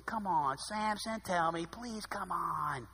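lightly played seductive coaxing; coaxing seductively. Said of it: "the seduce thing going".

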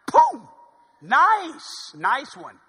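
loud, gleeful cheer at the strike; mock cheer. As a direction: cheer it on like a fan.

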